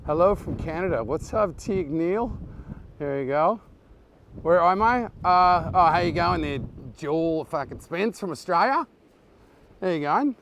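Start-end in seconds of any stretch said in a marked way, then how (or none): 4.4-10.4 playful put-on Australian accent; Aussie accent attempt. Greeting an Australian viewer on a livestream, attempted Aussie accent. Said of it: "Oh, beautiful Aussie accent attempt".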